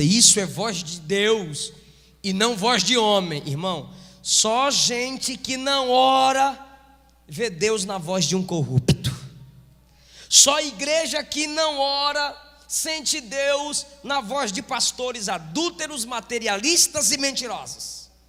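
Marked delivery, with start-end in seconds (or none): 0.0-3.5 loud, slow shout of a crowd. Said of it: "o povo grita".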